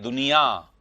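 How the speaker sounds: दुनिया with a wrongly nasalised final आ; common mispronunciation. Shown as a demonstration. Teacher shows how people say it, दुनिया with nasal ending. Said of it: "दुनिया को लोग ऐसे बोलते हैं".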